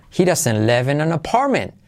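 "live" and "apartment" accented in a smooth line; linked sentence with beats on "live" and "apartment"; stress on live, apartment. Shown as a demonstration. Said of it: "Acentuamos live en apartment".

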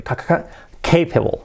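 ca, ca, ca, then capable with a hard, strong C; strong C drill. Shown as a demonstration. Teacher to students, stressing the hard C in capable. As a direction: hit the C at the start of capable hard. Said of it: "Y la C fuerte".

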